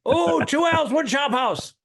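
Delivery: high, loud, exaggerated Asian accent; mock Asian accent. Comic riffing on a steakhouse name with co-host, mock Asian accent. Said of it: "I went Asian".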